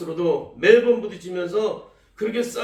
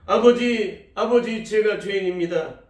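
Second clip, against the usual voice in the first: crying out; 2 semitones higher, 3 dB louder than usual. Retold or imitated. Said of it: "울부짖으며 외치셨답니다".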